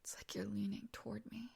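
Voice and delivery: hushed, close and breath-soft taunt; intimate teasing. Acted. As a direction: tease them softly, half whispering. Acted intimate teasing at close range.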